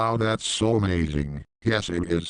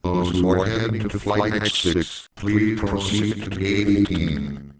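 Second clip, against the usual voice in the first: airport announcement. Acted. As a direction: announce the flight like a gate speaker. Boarding call at the airport.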